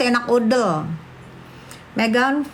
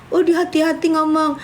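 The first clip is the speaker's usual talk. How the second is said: mocking; 6 semitones higher than usual. Mocking the critic's words.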